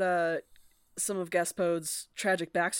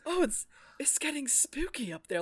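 higher, lisping flamboyant cat voice; a higher, lisping, camp take on the cat's line; lisping falsetto cat; 7 semitones higher than usual. Retold or imitated. Imitating the audiobook narrator's higher, lisping cat voice. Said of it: "almost like a falsetto".

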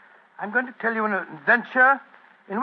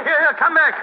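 urgent, louder and higher shout; calling out; 5 semitones higher, 5 dB louder than usual. Acted. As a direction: call after someone who is getting away. Calling after a fleeing man.

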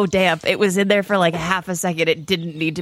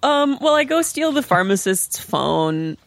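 offhand, matter-of-fact; casually dropped in, unbothered; nonchalant; 5 semitones higher, slower than usual. Real, not acted. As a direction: toss it out as if it's nothing. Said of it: "You said it so nonchalantly".

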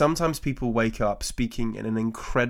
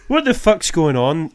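louder, slower Glaswegian comic rant; Billy Connolly Scottish accent; 5 semitones higher, 8 dB louder than usual. Retold or imitated. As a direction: bellow it like an old Scottish comedian, slow and baffled. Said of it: "I'm just doing it as Billy Connolly there".

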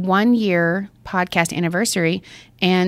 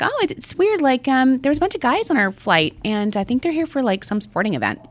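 imitating coworker; 6 semitones higher than usual. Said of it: "And she's like".

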